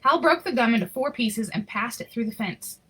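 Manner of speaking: even, expressive read-aloud storytelling; story narration. Acted. Reading a Christmas picture book to children, storytelling voice. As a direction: tell the story to the kids gently.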